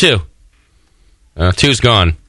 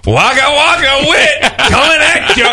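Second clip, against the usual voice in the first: high, slow echoey well voice; 13 semitones higher than usual. Pretend. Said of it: "bottom of the well brown".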